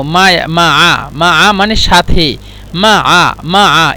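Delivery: "মা আ" with a throaty ain break in the middle. Shown as a demonstration. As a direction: say "মা আ" slowly with a guttural ain. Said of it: "এই মায়া বলবেন না কোনো সময়". ("মা আ" আইনের উচ্চারণ দিয়ে)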